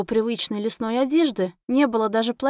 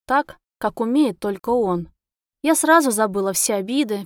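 ordinary delivery, nothing marked

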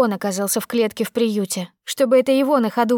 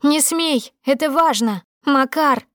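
higher, urgent cries; panicked protest; 5 semitones higher, slower than usual. Acted. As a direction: plead and forbid at once.

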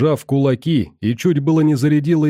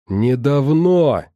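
shout; 3 semitones higher, much slower than usual. Acted. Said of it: "закричал Ганс".

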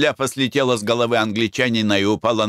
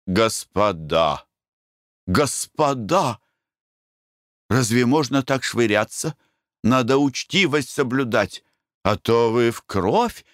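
scolding wife; slower than usual. Acted. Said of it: "останавливала мужа и Конурина".

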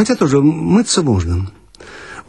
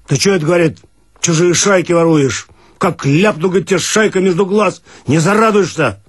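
a raised, menacing voice guarding his tubs; threatening bather; 5 semitones higher than usual. Acted. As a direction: growl the threat at a tub thief, higher and pushier.

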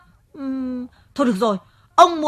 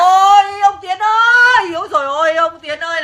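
wailing call; 3 semitones higher, 5 dB louder than usual. Acted. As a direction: cry out the husband's name in despair. Wife wails for her husband.

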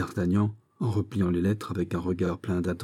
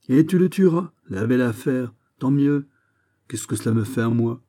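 scoffing retort; 4 semitones higher than usual. Acted. Captain answering the duel threat, scoffing.

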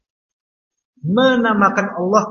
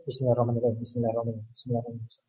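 bismillahirrahmanirrahim gabbled fast and low; mocking rapid mumble; 7 semitones lower, 11 dB quieter, much faster than usual. Shown as a demonstration. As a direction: rattle it off fast, fading to a murmur. (gumaman cepat mengejek)

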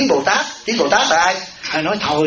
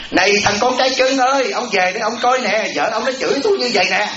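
higher-pitched, lightly acted mother's complaint; complaining mother; 5 semitones higher than usual. Mother phones her son about his wife, mock complaining. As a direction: call up your son to tattle, pitched up. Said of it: "bắt đầu bóc cái điện thoại nè".

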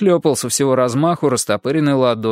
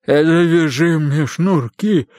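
demanding; 4 semitones higher, 3 dB louder, slower than usual. Acted. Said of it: "потребовал он".

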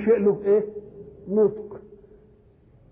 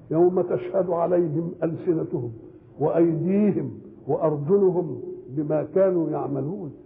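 Quranic recitation. Acted. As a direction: draw the verse out with care. Recites the verse measured.

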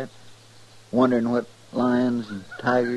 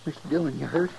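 anxious, raised checking voice; worried; 5 semitones higher, faster than usual. Acted. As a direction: check on an injured friend. Checks on kicked friend.

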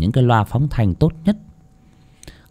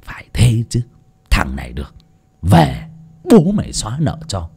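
delighted. A narrator's reading. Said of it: "sướng quá, vỗ đùi đánh đét".

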